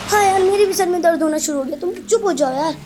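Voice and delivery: a touch of high, put-on complaint; complaining cartoon friend. Plays cartoon friend with a headache. (हल्की ऊँची, शिकायती कार्टूनी आवाज़)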